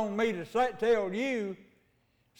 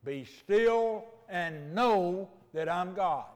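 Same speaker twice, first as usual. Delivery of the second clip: slow solemn quote; much slower than usual. Acted. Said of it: "you believe that if you want to".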